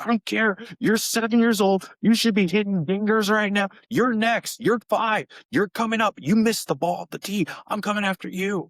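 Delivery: put-on playfully bully little kids as a fierce coach; mock tough coach. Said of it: "I was like".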